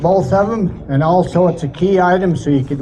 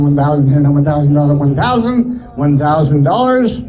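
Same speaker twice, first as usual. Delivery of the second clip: rapid rolling auction chant; auctioneer. Acted. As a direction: rattle off the bids like an auctioneer.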